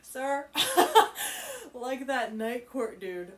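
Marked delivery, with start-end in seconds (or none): 0.5-3.3 slow, amused, laughing it out. Real, not acted. Reader laughing at Rune's line. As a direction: repeat it through giggles.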